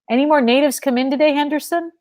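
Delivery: quick, clipped officious question; trying to sound official. Acted. Guard questioning his comrade, trying to sound official. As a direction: play the man in charge. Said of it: "trying to sound official".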